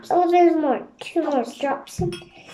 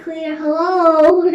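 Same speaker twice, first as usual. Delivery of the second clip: excited hello; 8 dB louder, slower than usual. Real, not acted. Greeting the slime excitedly.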